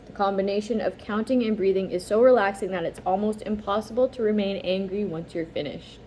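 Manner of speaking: calm, even instruction reading; reading aloud. A narrator's reading.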